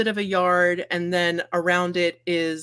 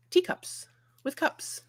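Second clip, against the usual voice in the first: whisper; 11 semitones higher, 7 dB quieter than usual. A narrator's reading. Whispered while narrating the cupboard.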